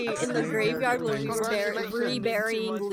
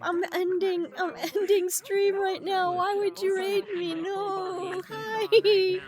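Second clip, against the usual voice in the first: laughing; 6 semitones higher, slower than usual. Real, not acted. Laughing, flustered by the raid.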